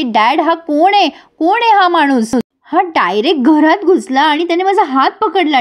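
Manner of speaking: acted daughterly protest; indignant complaint. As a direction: tattle to dad, lightly hammed-up. Daughter complains to father, retold.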